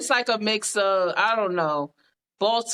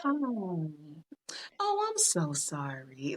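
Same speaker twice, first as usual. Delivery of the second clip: customer service voice; 8 semitones lower, 11 dB quieter than usual. Acted. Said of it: "we were big on customer service".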